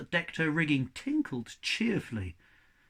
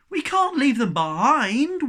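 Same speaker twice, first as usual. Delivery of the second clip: high, loud wail; wailing plea; 10 semitones higher, 9 dB louder than usual. A narrator's reading. Cabin boy wailing for the pugs left behind. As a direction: wail it in despair. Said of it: "wailed Shen".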